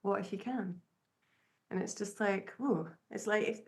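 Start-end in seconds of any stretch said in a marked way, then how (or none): 0.0-0.8 quiet, gentle question; calm inner voice. Retold or imitated. Inner voice gently nudging a struggling painter, calm and soft. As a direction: let it drop in softly, unhurried. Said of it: "this other voice just kind of drop in there really calmly".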